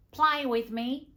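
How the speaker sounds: high, loud, eager wheedle; whiny childlike husband. Acted. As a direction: plead like an overexcited little boy. Husband's childish pleading acted in narration.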